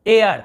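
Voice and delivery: एयर slowly, long "ay" gliding into "ar"; air pronunciation. Shown as a demonstration. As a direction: model एयर as "ay-ar". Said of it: "ऐसे देखिए".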